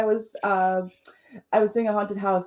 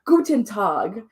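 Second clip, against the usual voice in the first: slow greeting in a bad German accent; slower than usual. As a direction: draw out a hammed-up German accent. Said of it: "in a horrible accent of a new language".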